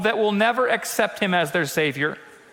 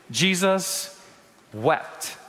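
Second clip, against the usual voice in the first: solemn hush; 3 semitones lower, much slower than usual. Acted. Reading the shortest verse solemnly.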